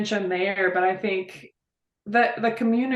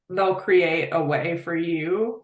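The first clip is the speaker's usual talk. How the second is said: slower, voice welling up with real feeling; getting emotional; 2 semitones lower, slower than usual. Real, not acted. Praising the people here, getting emotional. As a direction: choke up as you say it. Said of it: "I'm gonna get emotional".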